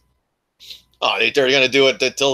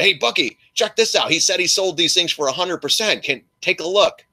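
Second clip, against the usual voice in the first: higher, lightly voiced follower; a fan tipping him off, a touch higher; followers' voice; 5 semitones higher than usual. Followers emailing Bucky, light higher voice. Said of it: "They say".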